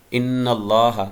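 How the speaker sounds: ان اللہ with the doubled n held through the nose; nasal ghunna. Shown as a demonstration. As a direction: hum the nn in ان اللہ. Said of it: "نون پہ غنہ کریں گے".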